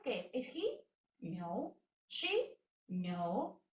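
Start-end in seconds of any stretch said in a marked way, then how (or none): 0.3-0.9 much higher, teasing quiz question; quizzing question. Shown as a demonstration. Teacher quizzing students on pronouns, high teasing question. 2.1-2.6 much higher, teasing quiz question; quizzing question. Shown as a demonstration. Teacher quizzing students on pronouns, high teasing question.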